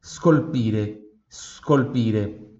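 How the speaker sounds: "scolpire" slowly, opening on a bare breath of S; "scolpire" drawn out for learners to copy; soft puff of S. Shown as a demonstration. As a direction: model "scolpire" as sss-kol-PEE-reh, no vowel first. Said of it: "só o soprinho mesmo do S".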